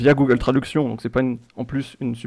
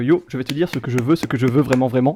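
monotone lyric reading; faster than usual. Pretend. Quizmaster rereads the answer's lyrics to players, monotone. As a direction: run the lyrics together deadpan. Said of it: "vous les lire de manière un peu monotone".

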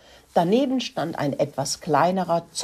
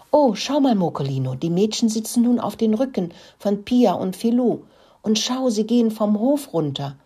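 excited; 6 semitones higher than usual. Acted. The mouse shows her brother the girls riding off, excited. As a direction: call your brother's attention in delight.

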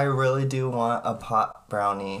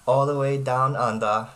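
mock Australian accent. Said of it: "How is my accent".

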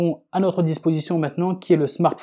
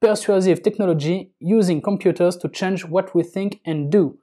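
reading the English book title in an English accent; announced English accent on an English title. Shown as a demonstration. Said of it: "attention à l'accent, l'accent anglais qui débarque".

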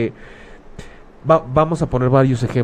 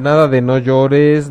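NADA stressed, slow and louder; emphatic nada; 5 dB louder, slower than usual. Shown as a demonstration. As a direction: punch the word nada, slowly. Rejecting cliché, emphatic.

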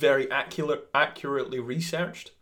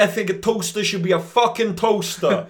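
angry rant; 10 semitones higher, 11 dB louder than usual. Acted. Comic rant, shouted.

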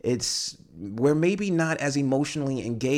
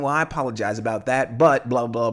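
dismissive formal apology; 4 dB louder than usual. Retold or imitated. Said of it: "who's an asshole".

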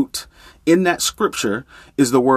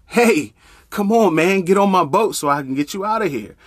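calling out; 4 semitones higher than usual. Acted. Woman calls from motorboat.

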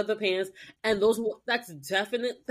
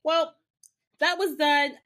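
quick, airy, laughing brushoff; breezy mock nonchalance; faster than usual. Host voicing Piper leaving for the party, breezy and quick. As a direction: toss it off like you couldn't care less.

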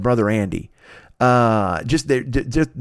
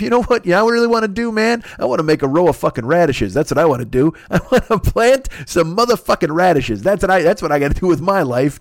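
gentle farmer Shakespeare; 5 semitones higher than usual. Retold or imitated. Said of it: "he thought to himself".

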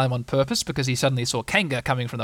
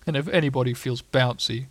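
gloomy donkey voice. Acted. Eeyore grumbles at length.

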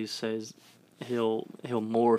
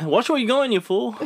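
cartoon villain voice; 11 semitones higher, 5 dB louder than usual. Quoting Courage cartoon villain.

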